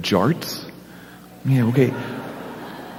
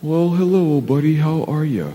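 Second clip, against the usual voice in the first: put-on higher, sing-song voice for a child; puppet chat; 6 semitones higher than usual. Pastor coaxing the puppet Big Al, higher and sing-song. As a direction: coax a sulky little kid to talk.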